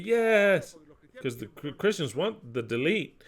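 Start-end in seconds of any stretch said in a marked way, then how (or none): 0.0-0.8 high, loud, drawn-out cheer; mock-jubilant crowd crying out; cheering believers. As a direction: whoop it out as gleeful believers. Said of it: "the Christians would be".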